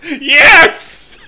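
high, breathless laughter through words; cracking up, barely getting words out; laughing hard. Real, not acted. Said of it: "I'm laughing so hard I'm hiccuping".

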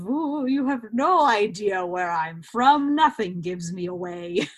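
lightly acted air of intrigue; playful mystery. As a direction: draw it out with a mock-mysterious ooh. Acting out being mysteriously unplaceable.

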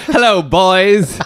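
slow sultry flapper greeting; a hint of an old-time starlet, slowly; gangster's moll. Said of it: "sounds like a flapper, like an actress back in the day".

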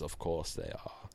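cold satisfaction, deep villain purr; Darkseid impression. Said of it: "It's my Darkseid impression".

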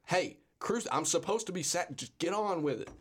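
mock impatient Jesus. Jesus prodding the soldiers to get it over with, mock impatient. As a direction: poke them like cattle to get on with it. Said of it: "take the cattle prod and be like".

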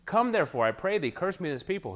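a hint of a pleading king in the quoted verse; begging king. Preacher reads Balak's plea to Balaam, lightly pleading. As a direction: read the king's plea, rising as he begs. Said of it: "He's just begging".

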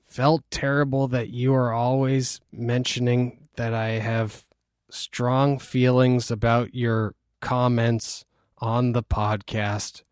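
slow, soft, halting card reading; lightly voiced mom reading word by word; measured, quiet delivery with pauses; Nancy. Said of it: "read it in her voice".

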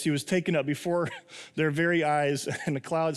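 breaking into a chuckle mid-sentence; real suppressed laughter; laughing while reading. Real, not acted. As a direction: try to read on through a laugh. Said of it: "tell you why I'm laughing".

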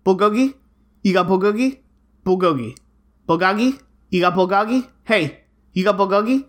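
lightly imitated customer repeating an order; re-enacted pushy customer. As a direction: toss out the same question over and over, mostly rising. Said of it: "Just like this".

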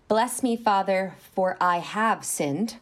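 slow, careful formal recital; hushed confession whisper. Shown as a demonstration. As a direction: say it slowly like a ritual. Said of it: "You're really close".

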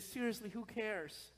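soft, gentle put-down; loving deadpan. Retold or imitated. Kristen lovingly answering the excited pastor, soft loving deadpan. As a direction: let them down lovingly, quietly. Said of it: "looked at me very lovingly".

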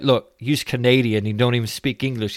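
cheeky mock taunt in a light Ali G voice. Retelling the skit, Ali G mocking Nash lightly. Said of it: "He's like".

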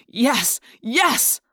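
rising joyful yes; inner cheer. A narrator's reading. Jake silently cheering Ax's logic, inner cheer. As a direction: cheer inside, unheard. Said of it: "I wanted to yell".

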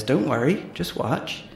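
lightly voiced country farmer accent; amateur rustic farmer accent. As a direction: farmer accent with a lifting end. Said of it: "I'm really sorry about the accent".

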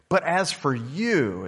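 slow, weighty start of a Bible reading; scripture reading. Acted. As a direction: open the passage slowly and solemnly.

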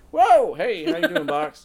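high, loud cooing at a cat; cat greeting voice. Real, not acted.

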